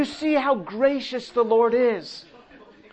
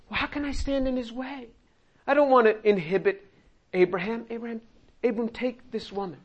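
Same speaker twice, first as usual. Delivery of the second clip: Sarah's gentle voice; 2 semitones higher, faster than usual. Acted. Sarah voiced giving Hagar.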